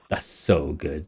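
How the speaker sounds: quiet delight. Real, not acted.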